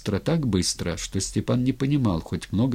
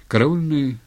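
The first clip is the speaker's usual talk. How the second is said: ordinary delivery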